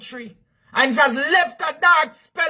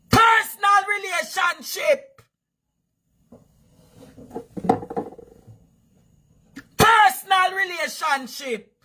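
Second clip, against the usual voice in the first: Personal punched at the start of each repeat, slightly higher; stress on personal; 4 semitones higher than usual. Shown as a demonstration. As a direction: hammer the word Personal again and again. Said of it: "Emphasis on personal".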